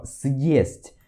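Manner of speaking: "съесть" drawn out, s split from yest; slow separated съесть. Shown as a demonstration. Teacher slows down "съесть" for the class. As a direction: say "съесть" slowly with a break. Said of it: "você consegue perceber ela melhor".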